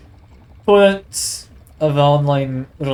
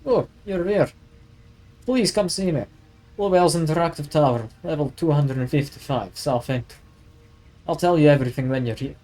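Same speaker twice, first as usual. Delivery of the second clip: half-hearted gangster impression reading the caller's lines; mild Russian mobster put-on; Russian mafia voice. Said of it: "he can be, like, Russian mafia".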